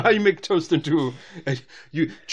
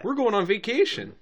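put-on Midwestern accent; 5 semitones higher than usual. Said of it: "Wisconsin or Michigan or something".

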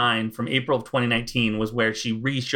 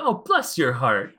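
slow, lightly put-on Southern drawl; a hint of stock Southern sweetness; Southern cliché. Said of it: "not, not quite a".

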